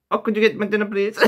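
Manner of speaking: high put-on Asian accent; mock Asian accent. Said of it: "the Asian thing is quite easy to do".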